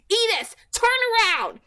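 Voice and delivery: loud, high shout. A narrator's reading. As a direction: yell at the driver. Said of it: "I shouted".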